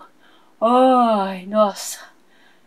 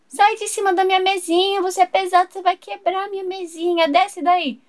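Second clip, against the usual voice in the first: high shrill scolding; 5 semitones higher than usual. Acted. Owner shrieks at Julian on table.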